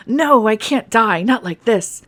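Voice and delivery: loud, slow, pleading cry; desperate screech. Acted. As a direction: beg for your life, screeching. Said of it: "he'll shout with a desperate screech".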